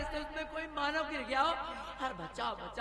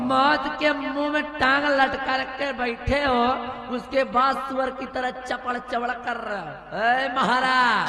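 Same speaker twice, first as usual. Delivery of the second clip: angry scolding; 7 dB louder than usual. Acted. Queen berates king in the well.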